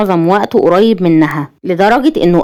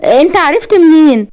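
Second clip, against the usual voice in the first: high, louder shocked question; stunned; 8 semitones higher, 3 dB louder than usual. A narrator's reading. Exposed woman asking how he knew, high and stunned. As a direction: blurt it in panic. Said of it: "وقالت بذهول".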